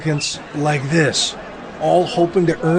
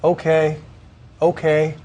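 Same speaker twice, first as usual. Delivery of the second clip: flat, even robotic okays; automated computer voice. Retold or imitated. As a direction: say it like a phone system's recorded voice. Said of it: "the computer voice on the line that says".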